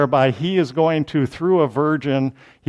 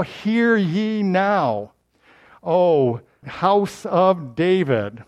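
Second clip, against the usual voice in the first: slow, drawn-out herald call; official proclamation; 3 semitones higher, much slower than usual. Shown as a demonstration. Preacher proclaiming Isaiah's address to David's house, slowly. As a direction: proclaim it like a royal crier. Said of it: "you see how he's getting official now?".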